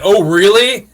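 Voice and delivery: mock the news with feigned interest, laughing slightly; sarcastic. Imitating the reply given to the kid's discovery, sarcastic. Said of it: "he didn't pick up the sarcasm".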